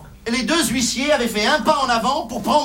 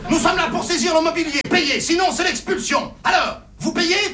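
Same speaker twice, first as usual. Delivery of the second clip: raised, cold bailiff voice, slowing on the demand; stern bailiffs; 6 semitones higher than usual. Acted. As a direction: lay down the ultimatum like a bailiff. Bailiffs threatening a poor family.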